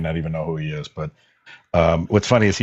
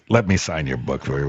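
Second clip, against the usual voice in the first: bad Charlton Heston impression; 5 semitones lower than usual. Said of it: "worst Charlton Heston impersonation ever".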